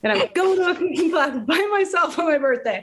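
high, mock self-pity voice; lightly hammed-up sad sack; self-mocking lonely widow. To her friend, mocking herself at the cooking class, high mock self-pity. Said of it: "So I'm like".

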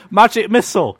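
high-pitched pretend casting; mock spell cry. Player keeps casting at goblins, mock battle cry.

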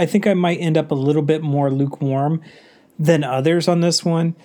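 stuffy nose from a cold; blocked nose. Real, not acted. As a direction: talk through a congested nose. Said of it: "pardon if I sound a little congested".

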